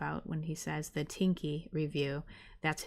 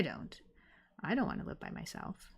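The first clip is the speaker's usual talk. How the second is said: soft unvoiced whisper; 7 dB quieter than usual. Real, not acted. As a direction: breathe it like a confession. Admits she hates living alone.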